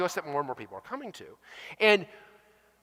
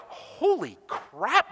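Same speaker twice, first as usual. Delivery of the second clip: mock shock; 5 semitones higher, much slower than usual. Customer shocked at cloud bills.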